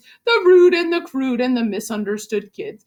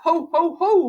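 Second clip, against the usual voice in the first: mock Santa laugh; 4 semitones higher than usual. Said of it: "Get a load of this laugh".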